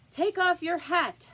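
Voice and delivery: loud, high, slow command; king ordering the Hatter; royal command. A narrator's reading.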